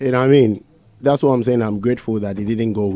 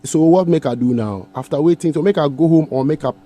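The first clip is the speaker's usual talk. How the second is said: raised-pitch retold protest; 6 semitones higher, 4 dB louder than usual. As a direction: replay his own upset pushback, somewhat higher. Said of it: "Then I said".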